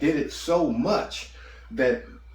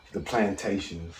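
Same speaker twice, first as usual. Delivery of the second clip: distant, faint off-mic voice; talking too far from the mic; phone held away; 3 semitones lower than usual. Real, not acted. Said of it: "Speak closer to the phone".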